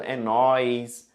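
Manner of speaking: "é nóis" drawled slowly as street slang, nasal nóis for nós; a sloppy colloquial "é nóis" with friends; slangy é nóis. Shown as a demonstration. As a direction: say "é nóis" lazily and slow, like casual slang. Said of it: "Às vezes fala errado".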